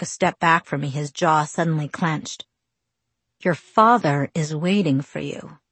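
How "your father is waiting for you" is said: gritted teeth; through gritted teeth. Acted. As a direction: speak through clenched teeth. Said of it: "he said through his teeth".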